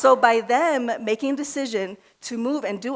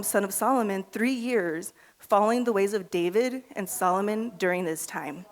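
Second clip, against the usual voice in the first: out of breath; 2 semitones lower, 3 dB quieter than usual. Real, not acted. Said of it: "Sorry, I'm out of breath".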